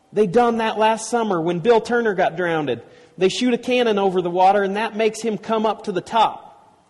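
put-on high-pitched, eager boyish telling; excited explaining. A narrator's reading. Huck explains the cannon to his friends, excited. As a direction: rattle out the explanation with growing eagerness.

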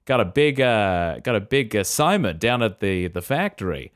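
lightly acted folksy store chat; a hint of homely small-town banter; small-town regular. Regular ordering at the deli, lightly folksy. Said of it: "he's gonna get down to the store".

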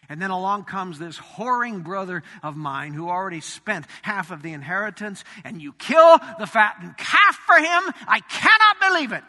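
jealous son blowing up at his father; resentful outburst. Retold or imitated. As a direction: build from sour complaint to outraged disbelief. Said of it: "Can you hear the contempt on his voice".

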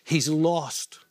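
soft, halting and moved, near tears; emotional, choked up. Real, not acted. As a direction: voice his father's worried love, barely holding it together. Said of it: "Sorry for being emotional".

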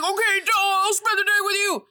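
a teen mockingly giving in to his brother; mocking sulky kid. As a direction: sneer it like a put-upon preteen. Chris voiced grudgingly agreeing.

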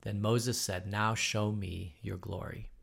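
measured, even Bible reading to the class; scripture reading. Acted. Teacher reading Exodus aloud to the class, steady reading voice. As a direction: read the verses steadily, like scripture.

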